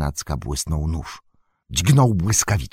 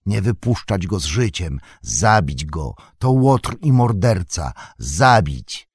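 a crowd of hobbits muttering for blood; grumbling, then loud on the calls to kill; angry mob demanding death; angry murmur; 4 dB louder than usual. Acted. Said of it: "zaczęli szemrać gniewnie".

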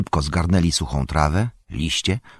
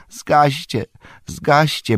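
high-pitched urgent plea; pleading; 8 semitones higher, much slower than usual. A narrator's reading. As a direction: beg them desperately. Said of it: "błagał Merry".

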